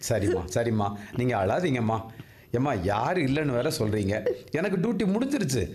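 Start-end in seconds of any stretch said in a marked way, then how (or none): 0.1-4.2 low-pitched, soothing reassurance; consoling. Acted. Man telling a crying widow not to cry, consoling. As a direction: drop the pitch and calm her down.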